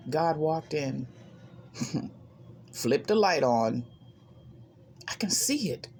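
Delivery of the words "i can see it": whisper. Retold or imitated. Whispered realisation in the dark.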